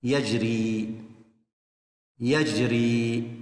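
very slow, drawn-out syllables; slow sing-song model reading; slow teaching read. Shown as a demonstration. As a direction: stretch it out as a model for children. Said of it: "الكلمة الثالثة".

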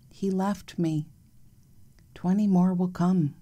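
slow, hushed poetic reading; poem reading. Acted. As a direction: read it like a meditation. Reads a meditative poem aloud.

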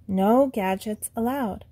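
gentle, slow reminder; kindly. Acted. Llama gently reminding Euclid, kind and slow. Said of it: "Llama says kindly".

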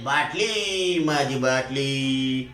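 drawn-out, very slow mock wail. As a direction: stretch बाटली and माझी बाटली out slowly like a hammed-up lament. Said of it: "जोरात रडायलेत". (खूप हळू, ओढून केलेला नाटकी आक्रोश)

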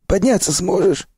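high, cheery gruff stalker praise; hearty stalker. Acted. Sipliy cheers the revived narrator in a high, hearty voice. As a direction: clap him on the back with your voice.

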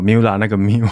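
"Miu" said as one syllable, mew; mispronounced "Miu". Shown as a demonstration. Host owning up to a misreading, mispronounced "Miu". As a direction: say "Miu" the mistaken way. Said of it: "可是我念成Miu".

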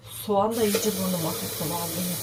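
sniffly nose from the onion; sniffling. Real, not acted. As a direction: talk while sniffling from onion. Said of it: "Arada burnumu çekiyorum". (burnunu çekerek)

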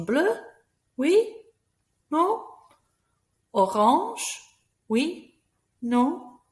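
each word lifted high, ending on a bright rise; question intonation. Shown as a demonstration. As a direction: ask every word as an eager question to children. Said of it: "our voice goes up to make it a question".

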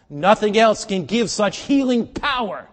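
slow, high, very loud proclamation; full-force preaching. Real, not acted. Preacher extolling scripture's healing power, slow full-force shout. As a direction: proclaim it at a shout, stretching the words.

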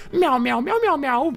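high, loud meowing; cat meows. Pretend. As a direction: meow like a little cat. Voicing his pet cat.

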